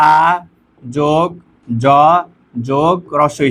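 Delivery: আ, জ, ই each set apart by pauses, joined with যোগ; spelled out sound by sound. Shown as a demonstration. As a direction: break আজি into আ যোগ জ যোগ রস্বই. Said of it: "যদি আমরা উচ্চারণ করি". (আ, জ, ই আলাদা আলাদা করে থেমে বলা)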